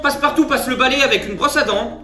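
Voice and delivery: lightly voiced newsreader; news report.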